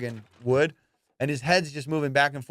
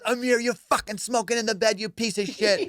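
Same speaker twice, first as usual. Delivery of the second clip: retold angry accusation; 5 semitones higher than usual. Retold friend blaming him in video.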